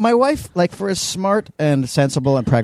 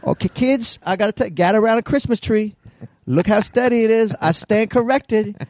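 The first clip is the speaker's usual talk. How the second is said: man doing a woman's voice; 9 semitones higher than usual. Retold or imitated. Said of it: "She's like".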